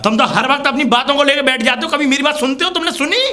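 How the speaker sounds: rising, heated reproach; angry accusation. Acted. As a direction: accuse him, pitch climbing to the final question. Son quarrels with his father. (चिढ़कर, चढ़ती आवाज़ में शिकायत)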